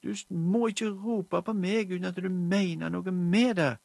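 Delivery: høyt, lyst og sint barnerop; sint rop. Acted. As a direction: tramp i gulvet og rop det ut. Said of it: "ble så sint at hun tramte". (sint jente roper til moren, høyt og lyst)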